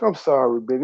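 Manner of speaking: mock apology. Showing her how her line sounded, mock apology. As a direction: mimic a half-hearted sorry. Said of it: "This is what it sound like".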